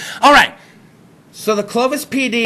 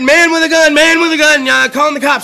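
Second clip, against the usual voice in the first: panicked caller; 5 semitones higher, 4 dB louder than usual. Retold or imitated. Acted panicked 911 caller.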